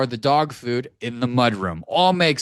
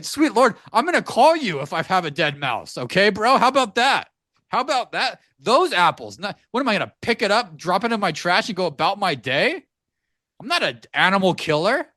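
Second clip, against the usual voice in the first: higher, exasperated disbelief at the landlord's guy; incredulous inner rant; 4 semitones higher than usual. Retold or imitated. Telling the listener his inner reply to the mouse guy, exasperated and higher. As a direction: pitch it up, like you can't believe what you're hearing. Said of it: "I'm thinking".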